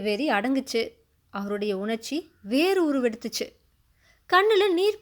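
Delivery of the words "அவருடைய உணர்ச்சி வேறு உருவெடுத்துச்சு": plain reading voice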